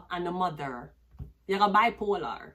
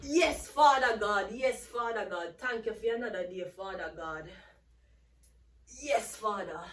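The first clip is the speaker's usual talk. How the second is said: street prayer. Retold or imitated. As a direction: call out thanks to Father God, then let it drift down. Jamaican street praise and prayer.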